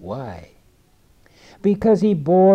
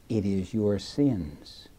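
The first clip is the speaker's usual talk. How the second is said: slow, softer, lower voice of Jesus; quiet grave answer; 7 semitones lower, 9 dB quieter, slower than usual. Acted. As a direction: let it fall heavy and slow.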